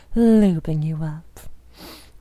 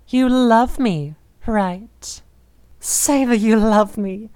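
louder, pressing demand for an answer; insistent demand; 2 semitones higher, 4 dB louder, slower than usual. Acted. A possessive lover demanding her partner say he loves her, louder and insistent. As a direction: push hard for the yes. Demanding reassurance after outburst.

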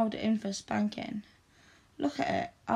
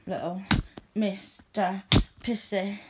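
mocking taunt; 4 dB louder than usual. Mummy taunts the wet boy.

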